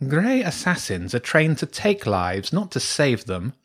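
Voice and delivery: slow, emphatic badger; sceptical badger priestess. Badger priestess doubting James's story of the assassin, sceptical. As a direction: state it deliberately, as a challenge.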